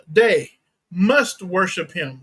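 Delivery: "must" leaned on, slow and firm; slow down and weight the word "must"; stress on MUST. Shown as a demonstration. Preacher telling listeners worship this way is a necessity, stress on "must". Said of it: "This is a necessity".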